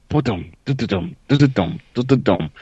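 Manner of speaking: short rhythmic bursts of mouthed gunfire; imitated gunfire. Player retells a primary gunfight, imitated gunfire. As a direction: sound out a gunfight in drum-like syllables. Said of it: "going into a primary gunfight".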